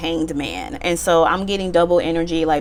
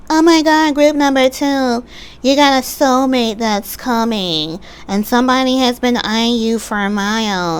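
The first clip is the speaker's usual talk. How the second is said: mock tarot reader hype; 5 semitones higher than usual. Mocking other tarot readers' hype.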